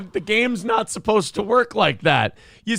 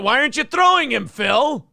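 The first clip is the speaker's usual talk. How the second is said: teasing shout; 5 semitones higher, 3 dB louder than usual. Real, not acted. Teasing call to Phil.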